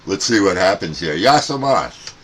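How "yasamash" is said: high, loud call into the mic. Real, not acted. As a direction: shout the greeting out over the band. Calling out to distant stations.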